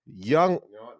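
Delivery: ordinary talk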